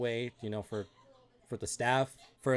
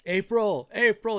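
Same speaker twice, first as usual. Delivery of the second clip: loud, high call across a crowd; shouting her name; 10 semitones higher, 10 dB louder, slower than usual. A narrator's reading. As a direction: call out for someone lost. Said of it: "He just starts shouting her name".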